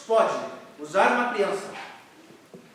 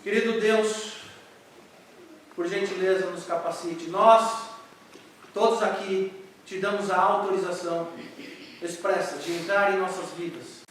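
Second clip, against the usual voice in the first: earnest prayer; 2 semitones lower than usual. Real, not acted. Pastor leading the church in prayer, reverent. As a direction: pray sincerely for the congregation.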